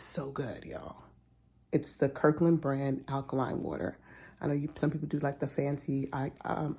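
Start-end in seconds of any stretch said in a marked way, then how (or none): 0.0-1.0 hushed whisper. Real, not acted. Vlogger whispering to viewers about alkaline water. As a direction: whisper the praise.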